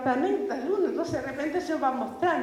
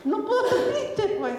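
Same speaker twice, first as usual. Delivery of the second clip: riendo; 8 semitones higher than usual. Real, not acted. Risa al afirmar que no está triste.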